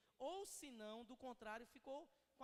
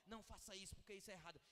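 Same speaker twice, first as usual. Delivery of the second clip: "Não faça isso" said softer as a cold, curt command; read as an order; 3 semitones lower, 4 dB quieter, much faster than usual. Shown as a demonstration. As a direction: make "Não faça isso, porque isso é errado" sound like a dry order. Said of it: "como uma ordem". ("Não faça isso" dito como ordem seca e fria)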